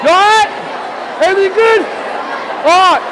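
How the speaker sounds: hammed-up Brit greeting a mate; cheery fake British voice; bad British accent. Shown as a demonstration. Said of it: "really bad Australian or British accent".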